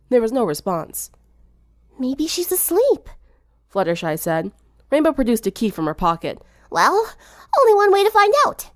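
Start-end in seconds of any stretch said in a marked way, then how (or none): 2.0-3.1 shy driver defending herself; lightly voiced gentle girl; timid Fluttershy. A narrator's reading. Timid suggestion. 6.7-8.7 put-on high, louder, cocky girl; a touch of swagger; tomboy daring the others; brash tomboy. A narrator's reading. Rainbow with a key.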